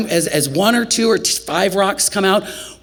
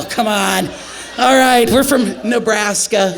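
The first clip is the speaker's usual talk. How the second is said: exasperated shout; 5 semitones higher than usual. Retold or imitated. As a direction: shout him down in disbelief. Shouting at flirting medic.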